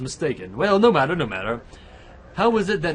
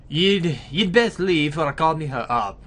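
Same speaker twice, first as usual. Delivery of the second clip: put-on a light Irish accent, a bit louder; 4 dB louder, slower than usual. Wary wife warns the stranger off, light Irish accent. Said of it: "Oh shit, I'm doing an Irish voice".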